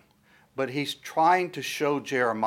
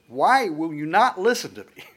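raised, pleading why; exasperated plea; 4 semitones higher, 4 dB louder than usual. Retold or imitated. Prophet pleading with stubborn people, exasperated. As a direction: beg them to listen, exasperated.

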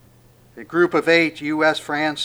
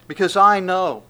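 angel reassuring women; 3 semitones higher, 6 dB louder, faster than usual. Pretend. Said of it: "the angel goes".

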